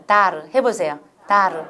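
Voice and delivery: 다르 with an open final r, air escaping; R sound. Shown as a demonstration. Teacher showing R to trainees, 다르 with air released. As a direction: say 다르 with an R that lets breath out. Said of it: "알로 하면 공기 나갈 수밖에 없어요".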